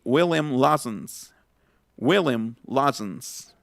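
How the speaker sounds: slow 'William Lawson's', last o swallowed; schwa ending. Shown as a demonstration. Teacher giving a whisky example, slow 'Lawson's' with no o. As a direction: say 'Lawson's' as LAW-sns, slowly. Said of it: "ya no se va a pronunciar la, la O".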